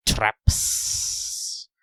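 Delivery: a hunter toying with his prey; Radamus lizard voice. Acted. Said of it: "I'm doing kind of a lizard man voice, so I have to roll my S's".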